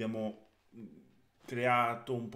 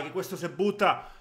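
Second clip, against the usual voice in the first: ordinary talk, nothing marked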